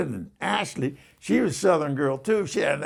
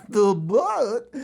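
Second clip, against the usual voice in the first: gasping it out through real laughter; laughing; 4 semitones higher, 3 dB louder than usual. Real, not acted. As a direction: say it while cracking up. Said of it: "we laughed so hard".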